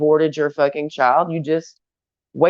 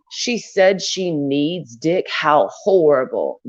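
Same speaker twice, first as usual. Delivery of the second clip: mock pearl-clutching; slower than usual. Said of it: "is my reaction to you?".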